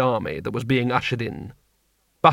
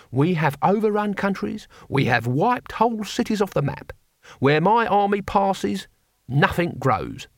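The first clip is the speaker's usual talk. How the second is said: warlord speech; 6 semitones higher than usual. A narrator's reading. Cohen boasting as warlord.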